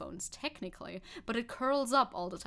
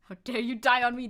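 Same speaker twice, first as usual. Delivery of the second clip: dog's voice; 8 dB louder than usual. Retold or imitated. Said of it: "That's Tenji".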